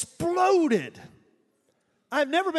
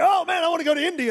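mock eagerness; 6 semitones higher, 3 dB louder, faster than usual. Mimicking eager listeners.

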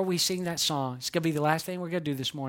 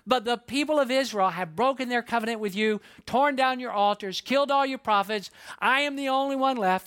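pouting; 5 semitones higher than usual. Acted. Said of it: "maybe he's pouting a little bit".

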